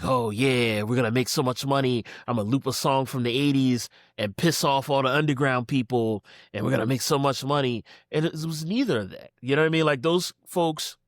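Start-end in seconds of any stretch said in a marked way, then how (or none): 0.0-7.8 lightly acted gloating schemer; a hint of cartoon villain glee; mock malice. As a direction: gloat a little, quickly, over the scheme. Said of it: "doing it out of malice".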